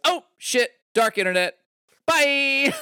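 very high, loud mock panic; hammed-up startled yelp; comic alarm. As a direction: squeal it like someone fleeing a blunder. Acting Crota's alarm and escape.

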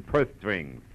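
"purse strings" with lisped S sounds; mocking lisp. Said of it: "People who can't pronounce the letter S".

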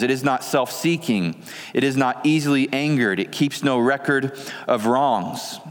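measured, solemn reading of scripture. Acted. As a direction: reverent pulpit reading. Reads 1 Corinthians 13 aloud.

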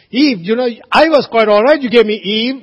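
Adam blaming Eve before God, hammed-up whine; mock Adam. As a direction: play Adam pushing blame onto Eve. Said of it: "He said".

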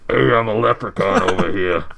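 a lightly put-on, loud, off-brand Irish leprechaun voice; half-hearted fake Irish leprechaun accent. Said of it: "a weird off-brand accent".

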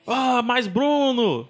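retold shout.

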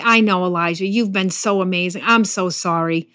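pat him on the head with your voice; mock pity. Pastor imagining God pitying Elijah, mock soothing. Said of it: "pity agreement tap on his shoulder".

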